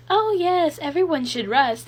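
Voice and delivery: high, loud, overdone agreement; mock a two-faced authority figure; hypocritical preacher. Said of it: "being a hypocrite, being like".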